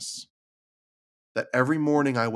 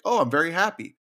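higher, mildly happy example; 6 semitones higher, 3 dB louder than usual. Acted. Parent telling kids about good feelings, mildly happy. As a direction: lightly act out being happy. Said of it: "even good things like".

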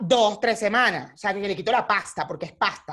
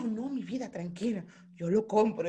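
tranquilizador; 6 dB quieter than usual. Retold or imitated. La pareja la tranquiliza.

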